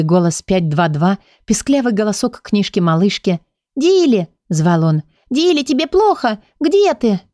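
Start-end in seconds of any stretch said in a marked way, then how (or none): 3.7-4.3 a high, urgent call from afar; Huxley calling out. Acted. The lord calls out to Dilly, worried. 5.3-7.2 high, anxious calling; worried lord calling. Acted. Huxley calls for the missing Dilly, alarmed.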